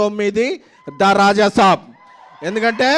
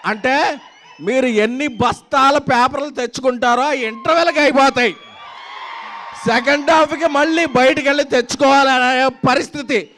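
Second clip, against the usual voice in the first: crowd-pumping stage hype; excited; 3 semitones higher than usual. Real, not acted. Hyping film on stage.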